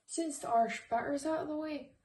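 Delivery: lightly put-on, horrible Irish accent; mock Irish lilt, half-hearted; bad Irish accent. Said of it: "stop talking in my horrible Irish accent".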